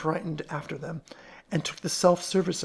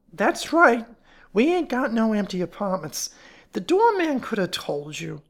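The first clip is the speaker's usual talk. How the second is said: higher, louder character voice; gruff fat woman, unwelcoming; 6 semitones higher, 5 dB louder than usual. Acted. Fat woman turning away supposed apartment hunters, unwelcoming. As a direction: play an unwelcoming building caretaker's wife.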